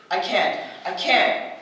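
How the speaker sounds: slow, airless words running out of breath; breathless gasping. Acted. Suffocating in a sealed glass room, breathless. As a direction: gasp it out as the air disappears. Oxygen being pulled from room.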